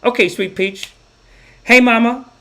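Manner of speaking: high, cooing nurse voice; sweet nurse impression. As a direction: coo pet names at a patient. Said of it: "then it would be like".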